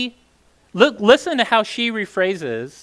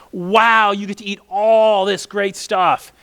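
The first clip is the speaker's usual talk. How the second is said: a touch of eager delight, drawn out; lightly excited, slowed-down praise; 2 semitones higher, slower than usual. Retold or imitated. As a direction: share the good news with mild glee. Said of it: "he's excited for them".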